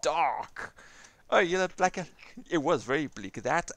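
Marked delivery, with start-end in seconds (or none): 0.0-0.7 loud, slow, spaced-out amazement; retold shock, drawn out and emphatic; stunned reaction. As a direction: punch out each word in disbelief. Retelling own stunned reaction to ending.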